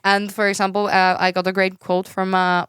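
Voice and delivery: put-on, halting Norwegian accent; bad Norwegian English. Shown as a demonstration. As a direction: tell it in mock broken Norwegian English. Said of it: "we speak like this".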